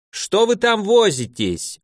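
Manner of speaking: put-on a grandmother hurrying the children; indignant. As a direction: grandmother scolding the grandchildren from downstairs. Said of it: "возмущённо поинтересовались снизу".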